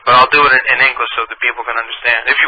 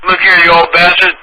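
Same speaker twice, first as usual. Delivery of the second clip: loud, high cranky yell; raised-voice tirade; angry shout; 5 semitones higher, 5 dB louder than usual. Acted. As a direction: chew him out like a furious old coot. Prank caller yells insults.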